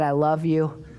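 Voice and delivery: low, tender declaration; tender assurance. Acted. Preacher speaking as Jesus to people he loves, tenderly assuring. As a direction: drop the pitch well down for a sincere promise.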